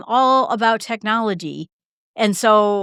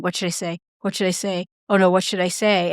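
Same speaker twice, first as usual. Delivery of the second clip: petrified mutter; 2 semitones lower than usual. Retold or imitated. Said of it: "petrified to say anything".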